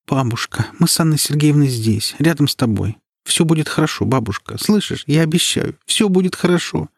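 high, gentle comforting voice; calm the sick grandmother; soothing reassurance. A narrator's reading. Даша успокаивает бабушку. (ласково, успокаивающе)

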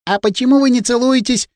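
put-on a let-down child asking why; disappointed. A narrator's reading. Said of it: "разочарованно спросила она".

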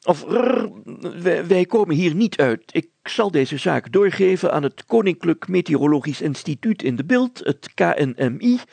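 high, loud, calling order then proclaiming; mayor taking charge; exasperated mayor. Acted. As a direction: shout down the quarrel, then announce. Mayor ends the dispute.

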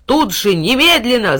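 loud overlapping shouts; shouting crowd. A narrator's reading. Animals shouting all at once. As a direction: cry out together. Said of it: "закричали наперебой".

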